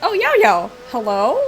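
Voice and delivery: calling out. Real, not acted. Calling out to character.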